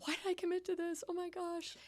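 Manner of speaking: packing up in the barn, mock exasperated self-complaint; exasperated groan. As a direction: moan at yourself for agreeing. Retold exasperation while packing up.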